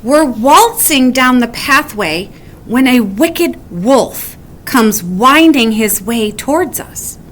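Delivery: spiral into worry, peak at the end; worried. Acted. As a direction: Weasel fretting about the wolf and wind. Weasel's worried what-ifs.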